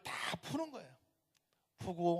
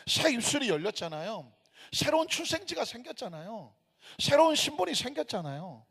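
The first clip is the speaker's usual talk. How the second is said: building pulpit list, each line driven harder, climbing higher at the end; fervent preaching; 4 semitones higher, 5 dB louder than usual. Real, not acted. Preacher proclaiming new life in Jesus to congregation, fervent. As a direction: proclaim each item with mounting fervour.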